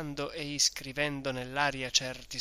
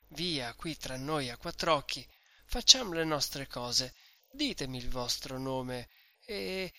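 gentile. Acted. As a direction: sweet-talk the drunk guest into giving his name. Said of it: "con una voce e con un fare tutto gentile". (oste mellifluo e persuasivo, appena più piano)

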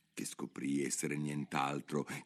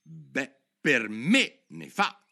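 in one breath; 7 semitones higher, 6 dB louder, much slower than usual. Acted. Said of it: "disse Alice d'un fiato".

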